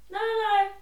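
sharp high protest of no, no, no; indignant no. Retold or imitated. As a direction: push back hard on her claim. Protests to old lady.

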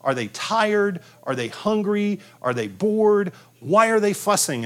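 a hint of a frazzled mom checking the list; worried new parent. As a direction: run through every possibility in a fluster. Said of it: "you're saying".

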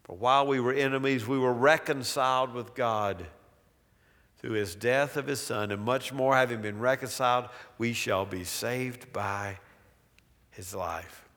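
scripture reading. Acted. Preacher reads Romans aloud.

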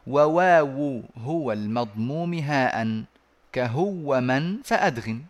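slow chanted verse; measured recitation of the poem line. Shown as a demonstration. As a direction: draw out each word of the verse like a recitation.

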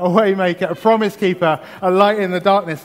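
exuberant. Acted. Preacher quoting a worship song to the congregation, exuberant. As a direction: proclaim each title with building zeal.

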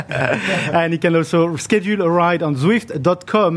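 slow, deliberate recovery; careful and slow. Real, not acted. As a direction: spell each word out carefully. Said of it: "I'm slurring my words".

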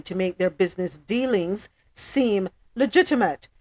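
measured, emphatic news report; news read. Acted. Host reading a police statement to listeners, news read. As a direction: read the report out deliberately, stressing key words.

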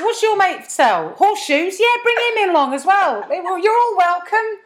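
hammed-up chummy host waving a stranger in; mock casual welcome. Continues mock welcome at French court.

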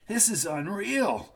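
slow tense whisper through teeth. A narrator's reading. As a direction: hiss it out slowly through teeth. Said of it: "Jackie whispered through his teeth".

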